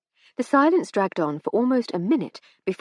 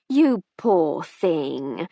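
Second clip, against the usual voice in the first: drawn-out pitying murmur; slow sympathetic coo; 4 dB louder, much slower than usual. Acted. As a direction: coo it slowly with pity. Sympathetic hostess.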